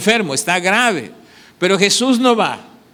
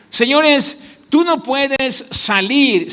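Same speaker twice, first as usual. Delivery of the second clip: calling out; 5 semitones higher, slower than usual. Real, not acted. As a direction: lift the voice and call them to attention. Preacher calling out congregation. (llamado fuerte y agudo a la congregación)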